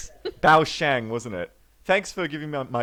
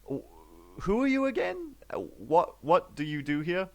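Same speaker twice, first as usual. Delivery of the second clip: higher, stammering, flustered; flustered Leaf; 3 semitones higher than usual. Acted. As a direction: stall awkwardly with a stunned face.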